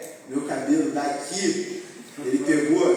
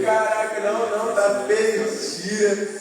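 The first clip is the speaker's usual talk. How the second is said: flustered protest; 4 semitones higher, 4 dB louder, slower than usual. Retold or imitated. Rejecting mother's makeup job.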